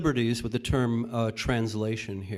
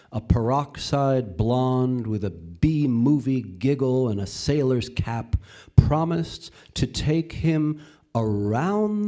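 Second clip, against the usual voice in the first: measured poem recital with drawn-out phrases; poetry reading. Acted. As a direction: read it as a poem, pausing between lines. Reads a poem aloud.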